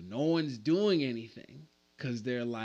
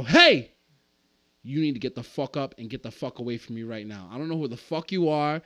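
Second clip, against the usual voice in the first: calm threat; 4 dB louder than usual. Retold or imitated. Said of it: "said very calmly".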